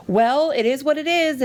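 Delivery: high, breezy mock shrug of a line; mock nonchalant. Mimicking the coordinator's nonchalant answer, breezy and high. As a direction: toss it off like it's no big deal. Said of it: "she said it so, like, nonchalantly".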